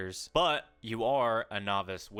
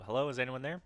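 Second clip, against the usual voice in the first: raised voice, calling into the woods; 4 semitones higher, faster than usual. Pretend. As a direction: call out to whoever is there. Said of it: "I call out to see if anyone needs help".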